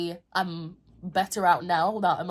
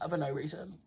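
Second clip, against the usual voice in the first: upset text to mum; 3 semitones lower, 7 dB quieter than usual. Retold or imitated. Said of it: "texting my mum whilst I was crying".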